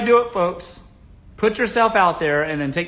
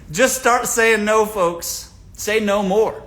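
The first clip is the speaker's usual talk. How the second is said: louder and higher, slow firm refusal; 4 semitones higher, 5 dB louder, much slower than usual. Shown as a demonstration. Advising viewers to refuse cheap suitors, firm loud no. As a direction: shut them down flat out.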